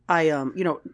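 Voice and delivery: stammered apology. Retold or imitated. Picard after being read the riot act, stammering. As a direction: fumble for what to say. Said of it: "he stammered over all of that".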